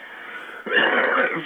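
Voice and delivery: dry rough coughing; coughing fit. Real, not acted. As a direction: cough hard, unvoiced. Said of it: "excuse me for the coughing".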